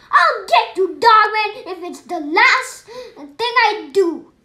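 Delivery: a loud, menacing threat from the villain. Acted. Petey threatening Dog Man, loud and menacing. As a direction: growl it out like a cartoon bad guy.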